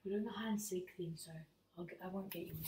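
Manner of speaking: fast hushed whisper. Real, not acted. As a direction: whisper quickly to mum. Explaining to mum quietly.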